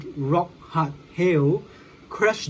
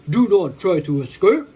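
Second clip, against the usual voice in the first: firm, louder order from the hero; commanding order; 5 dB louder than usual. Acted. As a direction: order the villain to stop. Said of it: "ordered Hawkman".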